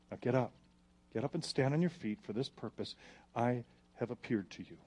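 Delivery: Jesus calmly commissioning Saul. Acted. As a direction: speak down gently but with authority.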